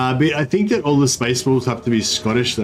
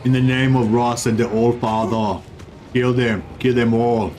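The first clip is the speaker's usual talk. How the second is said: Viking war cry. Pretend. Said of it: "something Viking-y that I could say".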